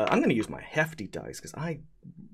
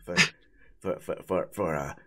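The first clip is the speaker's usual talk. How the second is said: spaghetti golem voice; 4 semitones lower than usual. Acted.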